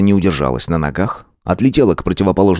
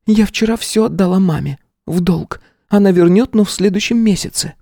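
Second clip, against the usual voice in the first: higher woman's voice, reproachful; Sveta's voice; 13 semitones higher than usual. Acted. Sveta reminds her boyfriend he promised, in a higher reproachful woman's voice. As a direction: play the young woman pushing back.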